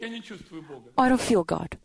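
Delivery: drawn-out mock whine of a lukewarm believer; whiny believer. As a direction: imitate a doubting churchgoer, dragging it out. Voicing a doubting believer's complaint.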